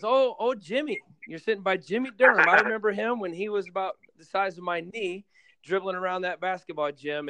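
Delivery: excited mom. Retold or imitated. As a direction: imitate mom lighting up at the memory. Mom recalls Jim as child.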